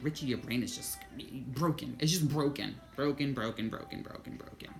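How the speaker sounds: repeated broken, fading to a whisper; mocking inner voice. His own mind taunting him, fading to a whisper. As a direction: let the taunt die away into a whisper.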